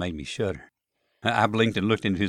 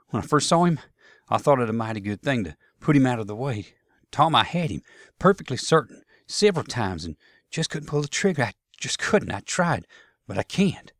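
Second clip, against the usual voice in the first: troubled Southern soldier; 4 semitones higher, 3 dB louder than usual. Acted. Soldier explains why he couldn't fire.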